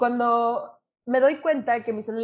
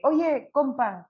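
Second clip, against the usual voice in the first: drawn out; 4 semitones higher, much slower than usual. Retold or imitated. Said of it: "le dije".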